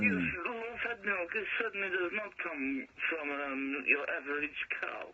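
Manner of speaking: put-on light Jamaican accent; a hint of Jamaican lilt. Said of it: "Why are you doing a Jamaican accent?".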